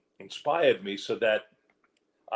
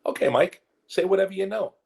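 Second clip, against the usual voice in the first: high-pitched imitation of a director; Martin Scorsese; 11 semitones higher, 5 dB louder than usual. Director giving the actor free rein, high-pitched imitation. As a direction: jump up high, like an approving director. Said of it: "imagine I had Martin Scorsese say this".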